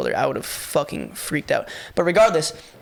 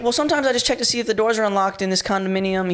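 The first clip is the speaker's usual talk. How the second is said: higher, overly formal stranger voice; mock proper intruder; 5 semitones higher than usual. Intruder explains himself in mock formal words, higher voice. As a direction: ham up a fancy intruder. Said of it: "He didn't say that".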